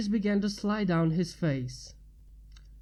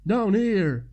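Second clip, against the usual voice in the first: shout; 5 dB louder than usual. A narrator's reading. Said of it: "A voice far behind him shouted".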